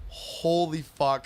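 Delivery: slow, drawn-out holy fuck with a laugh; slow stunned. Retold or imitated. Edibles hitting hard.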